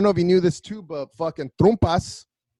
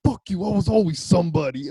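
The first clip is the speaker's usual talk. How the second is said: mock defiant comeback; 5 semitones higher than usual. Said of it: "gets his big".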